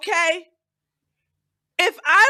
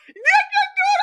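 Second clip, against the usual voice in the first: mock encouragement; 6 dB louder than usual. Mock pep talk to self.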